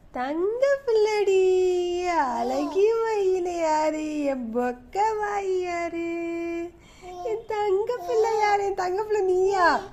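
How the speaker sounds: soft, lilting sing-song endearments. Real, not acted. Cooing pet names at baby. (குழந்தையை ராகமாகக் கொஞ்சுதல்)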